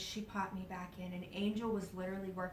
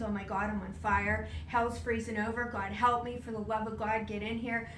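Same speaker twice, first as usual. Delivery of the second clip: retold scream; 4 dB louder than usual. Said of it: "started screaming at the top of my lungs".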